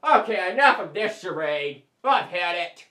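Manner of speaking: fast chipmunk voice; sped-up squeaky talk. Acted. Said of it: "That is my natural speaking voice".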